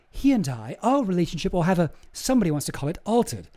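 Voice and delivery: a light mock British accent for Ghislaine; half-hearted British accent impression. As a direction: lightly put on a British accent, quoting her. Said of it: "sorry, I'll do the accent".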